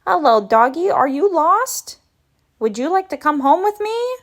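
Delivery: lilting doggy talk; coaxing a dog. Acted. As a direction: sweet-talk a stray with rising questions. Child coaxing a lost dog.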